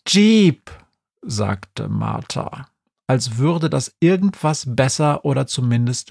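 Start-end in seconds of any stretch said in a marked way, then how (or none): 0.1-0.7 a short, louder correction; curt correction. Acted. Grumpy Martha corrects the cat, sharp and loud. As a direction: snap the word like a know-it-all.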